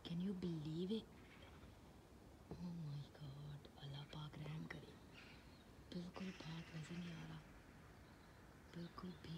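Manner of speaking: lost voice, whispering hoarsely; real sore throat, barely any voice. Real, not acted. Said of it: "ओ, मेरा गला हो गया इतना ख़राब".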